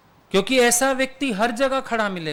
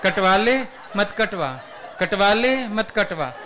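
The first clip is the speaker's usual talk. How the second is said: laughing singsong, rising on ले and falling on मत; crazed husband. Retold or imitated. Husband in the madhouse chanting his wife's dilemma with laughter. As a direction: chant it over and over like a man gone mad. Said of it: "पागल खाने में बैठा बोल रहा है".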